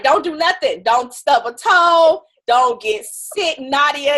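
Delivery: slow mock warning, a hint of a fussing husband; drawn-out caution like a protective husband; worried husband. Husband fretting over his wife's health, slow and mock-earnest.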